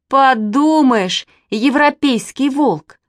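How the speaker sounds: высоко, громко, медленно, с презрением; насмешливо тянет; презрительно. A narrator's reading. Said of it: "скорчил презрительную рожу". (мальчишка презрительно дразнит девочек)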